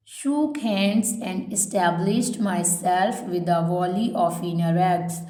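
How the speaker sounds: slow, spaced-out dictation read; measured classroom dictation pace. Shown as a demonstration. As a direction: read each phrase slowly so students can write it down. Teacher reads dictation aloud.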